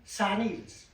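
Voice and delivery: Sannies, said sannilz; dialect word. Shown as a demonstration. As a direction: say Sannies for sandshoes. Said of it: "Went down to the beach for sannies".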